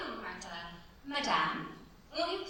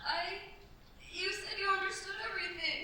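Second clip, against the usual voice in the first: nervous laugh; 6 semitones higher than usual. Acted.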